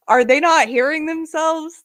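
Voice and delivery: high, loud disbelieving outburst; incredulous. Retold or imitated. Host mocking a campaign ad to viewers, incredulous. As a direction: blurt it out in amused disbelief. Retelling astonished reaction to the ad.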